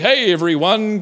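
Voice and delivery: mock hearty hello, unlike the real man; deliberately wrong imitation of a rapper's hello; rapper impression. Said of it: "'cause he doesn't talk like that".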